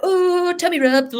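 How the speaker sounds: high, gushing oh with a laugh after; mock gushing kid. Teacher mocking a child rushing to rub a belly, gushing. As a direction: gush over the tummy like an eager child, then laugh. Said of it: "be like".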